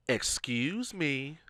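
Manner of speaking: drawn-out, slow call for attention; slow, pointed second try; insistent excuse me. Retold or imitated. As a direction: stretch it out to get noticed. Repeats it to ignored man.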